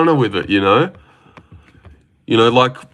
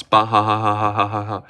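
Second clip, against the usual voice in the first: mock laugh. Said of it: "and then he laughs".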